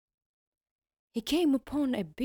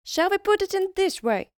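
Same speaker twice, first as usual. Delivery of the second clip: sly tiny elf making a deal; bargaining elf; 2 semitones higher, 6 dB louder than usual. Acted.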